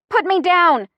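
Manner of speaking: loud, high-pitched protest; screamed demand. A narrator's reading. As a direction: yell to be let go. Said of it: "I scream".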